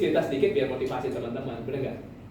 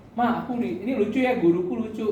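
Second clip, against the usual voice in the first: put-on child telling mom; 7 semitones higher than usual. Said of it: "dia lucu aja cerita".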